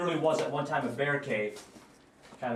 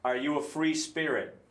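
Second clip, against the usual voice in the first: talking to a ghost; 3 semitones higher than usual. Real, not acted. Addressing spirits in the cave.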